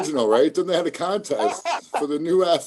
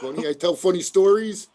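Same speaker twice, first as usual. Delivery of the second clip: higher-pitched mock wiseguy; Joe Pesci; 4 semitones higher than usual. Actor goes for Pesci, lightly put-on wiseguy. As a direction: lightly challenge them like a movie mobster. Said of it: "Yeah, Joe Pesci, baby".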